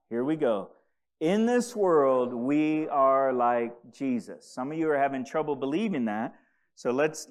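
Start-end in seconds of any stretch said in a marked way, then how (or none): 1.2-4.5 slow, emphatic verse reading; reading out loud. Real, not acted. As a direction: declare the verse slowly for the congregation. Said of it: "better read it out loud".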